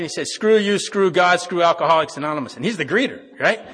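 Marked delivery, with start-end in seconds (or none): 0.3-2.6 loud, mock-surly brush-off; raised, punchy retold insult; retold hostile rebuff. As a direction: imitate a grouchy man telling everyone off. Retold hostile greeter refusing a greeting.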